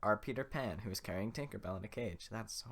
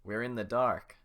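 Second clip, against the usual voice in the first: loud, panicky villagers; frightened men; 10 dB louder than usual. Acted. Villagers realise the torches are out, loud and panicky. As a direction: cry it out in the dark. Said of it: "That's the men saying".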